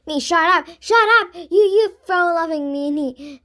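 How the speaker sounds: high, loud outraged retort; indignant yelling. A narrator's reading. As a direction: fling it back furiously. Girls quarrel while fleeing.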